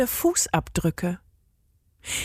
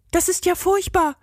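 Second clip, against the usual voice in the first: put-on higher girl's voice, shocked; dismayed girl; 9 semitones higher than usual. A narrator's reading. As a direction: gasp it, sympathetic. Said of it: "entgegnete das Mädchen". (erschrockene Mädchenstimme)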